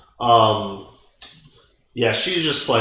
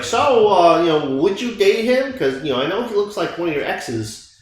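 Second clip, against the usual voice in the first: grandma voice; 6 semitones higher than usual. Retold or imitated. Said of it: "she's like".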